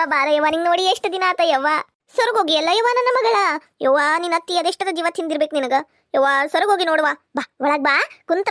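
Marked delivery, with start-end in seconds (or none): 2.1-3.4 higher, faster fussing; doting lament. Acted. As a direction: fuss over how thin she is. Mother fusses over thin daughter. (ಮಗಳು ಸೊರಗಿದ್ದಕ್ಕೆ ಮುದ್ದಿನ ಕೊರಗು)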